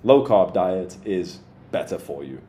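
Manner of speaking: slow, deliberate statement; written-out point. Shown as a demonstration. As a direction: spell out the point slowly. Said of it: "he should write out somewhere".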